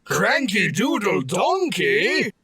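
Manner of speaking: loud, slow outraged cry of his name; shocked shout. Acted. Manager shouting at the drunk donkey in outrage. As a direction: bellow the name in disbelief.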